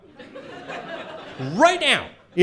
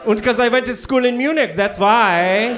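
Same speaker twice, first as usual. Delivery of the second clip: put-on comic German accent, raised pitch; mock German accent; 6 semitones higher, 4 dB louder than usual. China explains the schooling in Munich, in a German accent. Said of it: "Why do you have a German accent?".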